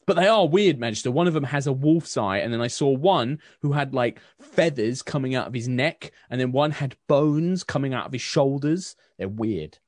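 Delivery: put-on young man bagging leftovers for the Baroness, fast; sulky young man. Aaron insists soldiers weird.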